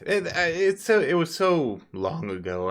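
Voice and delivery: high, hesitant stammer of a caught liar; flustered evasive NPC. Acted. Flustered businessman dodging the players' questions. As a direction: stall nervously, voice jumping up.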